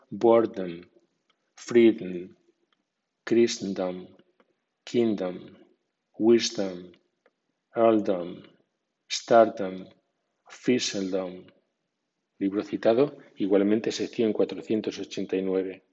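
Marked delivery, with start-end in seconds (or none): 0.1-11.5 boredom with dom unstressed and reduced; weak dom. Shown as a demonstration. Teacher shows learners the weak dom in freedom, unstressed suffix. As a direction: say freedom with dom weak, stress on the first syllable. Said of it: "con acento débil. Por ejemplo".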